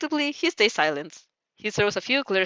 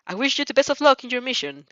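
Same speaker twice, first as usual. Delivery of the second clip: stiff formal voice; 5 semitones higher, 4 dB louder than usual. Acted. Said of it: "stiffly and robotically".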